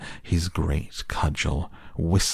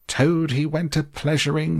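much higher, strained yelled chant of Toad he went a-pleasuring; 10 semitones higher than usual. Acted. Toad leaping at the weasels, high yelled mock chant. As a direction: fling the song back at them. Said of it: "he yelled".

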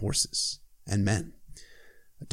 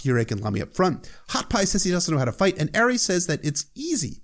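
ordinary talk, nothing marked

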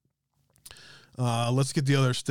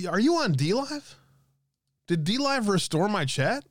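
astonished, pitch jumping high on the questions; real surprise; 9 semitones higher than usual. Real, not acted. Streamer spotting a viewer in his restored chat, surprised.

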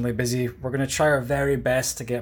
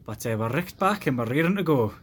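put-on Doric accent; 3 semitones higher than usual. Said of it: "trying to do a scripted Aberdonian throwback accent".

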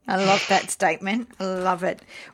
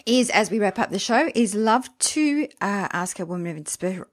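choking. Real, not acted. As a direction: voice catching from choking. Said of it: "Excuse me, I'm choking".

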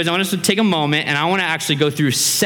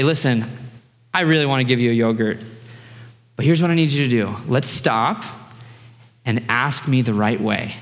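mild, measured fatherly firmness; patient parent; 4 semitones lower than usual. Retold or imitated. Dad looking daughters in the eye, calm and patient. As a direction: imitate a dad calmly setting terms.

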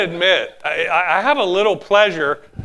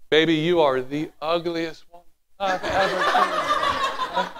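softer, laughing sweet delivery; sweet tone on an insult; 5 dB quieter than usual. Shown as a demonstration. Pastor shows the congregation tone over words, mock sweet laughing tone. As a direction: say the insult like a loving compliment. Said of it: "It's not what you say".

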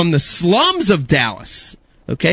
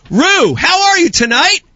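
talking to a dog; 12 semitones higher, 4 dB louder than usual. Acted. Asking the dog directly.

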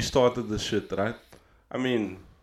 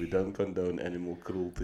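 whispered disclaimer; 6 semitones lower, 11 dB quieter than usual. Pretend. Hushed joking disclaimer.

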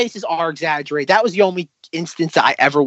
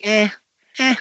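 reluctant; 5 semitones higher than usual. Retold or imitated. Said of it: "Do I really wanna do this?".

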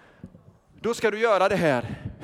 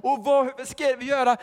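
usual speaking voice

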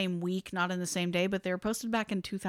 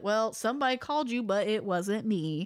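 lightly sassy comeback; a hint of sass, put in her place; sassy retort. Host quoting the cook's reply to Betty, with light sass. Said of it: "I'm putting a lot of sass on this".

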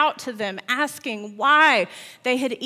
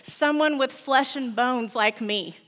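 exclaiming; 3 semitones higher than usual. Acted. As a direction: burst out with relief and delight. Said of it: "he exclaimed".

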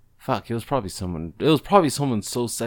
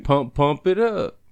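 slightly raised, slow chant; singer bent over; 4 semitones higher, slower than usual. Acted. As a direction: drawl the hook slowly, lightly acted. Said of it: "he's bent over saying".

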